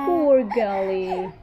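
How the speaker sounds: low, slow pitying coo; drawn-out soothing pity; cooing sympathy. Real, not acted. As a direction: commiserate gently, sinking low. Parent consoles crying child.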